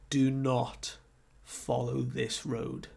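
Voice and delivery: slow, hushed, grave warning; stern warning. Retold or imitated. Guide warning travellers off the forbidden road, stern. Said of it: "he gives this really stern look".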